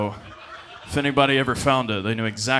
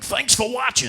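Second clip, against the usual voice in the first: cheery porn dude; 12 semitones higher, 4 dB louder than usual. Retold or imitated. Porn actor addressing the camera.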